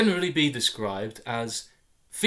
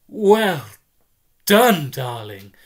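gushing mother; 3 semitones higher, 10 dB louder, slower than usual. Acted. Mother congratulating her son on his grades, gushing. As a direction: call it out gushing from the kitchen.

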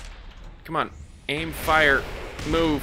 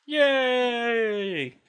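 silly high voice; 10 semitones higher, 3 dB louder, much slower than usual. Pretend. Silly mock voice after dying.

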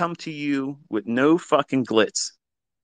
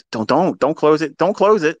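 urgent repeated plea, rising louder at the end; anxious pleading; 3 semitones higher, 3 dB louder than usual. Retold or imitated. Coach pleading at a trader's live stream, urgent. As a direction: beg him not to close the trade. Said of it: "I'm like".

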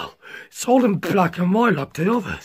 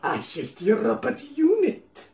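put-on Russian accent; 4 semitones lower, 4 dB quieter than usual. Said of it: "Notice how I do a Russian accent now".

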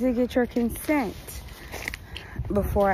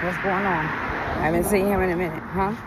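tipsy. Real, not acted. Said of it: "I'm a little tipsy".

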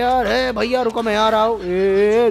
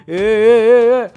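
loud yelling; 2 semitones higher, 7 dB louder, much slower than usual. Acted. Shouting during the fight.

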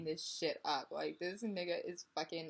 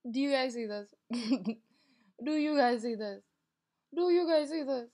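louder each time, rising on the last; insistent; 3 semitones higher, 8 dB louder than usual. Real, not acted. Showing viewers the messages, louder each time. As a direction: push it at the viewers, getting louder.

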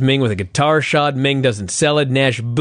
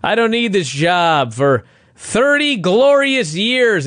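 slow mock Larry; 5 semitones higher, slower than usual. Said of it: "Larry goes".

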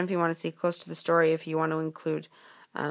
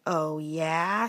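dragon; 3 semitones lower than usual. Acted. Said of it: "said the dragon".

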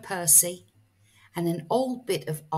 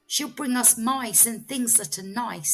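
lightly voiced hopeful owl; 5 semitones higher than usual. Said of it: "said Sarah".

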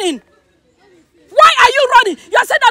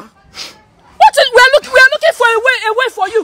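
tearful pleading. Acted. Pleading through tears.

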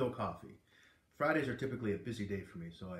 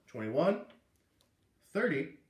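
announcing; 4 semitones higher, 5 dB louder, slower than usual. Acted. Teacher reading guesses aloud.

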